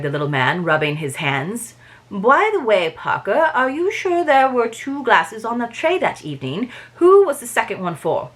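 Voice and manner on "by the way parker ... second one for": lightly voiced, shaky-footed French accent; attempted French accent. Detective questioning the servant Parker, attempted French accent. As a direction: have a go at a French accent, higher pitched. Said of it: "I can't do a French accent".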